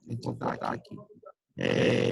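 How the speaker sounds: glitchy, broken-up online voice; breaking up. Real, not acted. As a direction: voice cutting in and out on a bad call. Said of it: "voz tá toda falhada".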